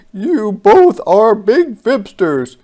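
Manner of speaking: high, loud creature voice, turning wistful; lonely alien thinking of his sister; monster softening. Acted. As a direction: let the giant's voice soften toward tears.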